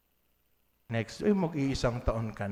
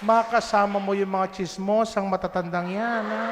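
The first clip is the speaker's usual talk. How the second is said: teasing jab; 6 semitones higher, 7 dB louder than usual. Real, not acted. Teasing the parish gossips.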